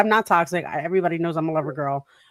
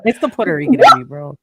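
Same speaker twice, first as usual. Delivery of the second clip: playful boast; 5 semitones higher, 10 dB louder than usual. Real, not acted.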